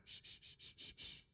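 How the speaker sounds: soft unvoiced shush. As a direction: hush them like an annoyed neighbor. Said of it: "the man in the booth next to them went".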